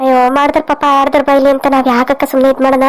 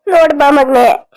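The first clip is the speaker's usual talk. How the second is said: slow, tearful plea through sobs; crying; slower than usual. Acted. Mother calling her son to see his dead father, crying. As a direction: weep as you call your son to look. Mother weeping beside husband's body.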